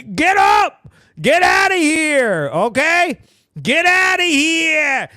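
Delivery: half-serious shouted shooing; shouting get out. Acted. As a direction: yell him off the spot, exasperated. Urging the man to leave.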